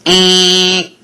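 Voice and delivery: tight, loud buzzing eh; nasal buzzer eh; buzzy eh sound. Shown as a demonstration. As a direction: buzz it like a doorbell. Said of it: "So it sounds like".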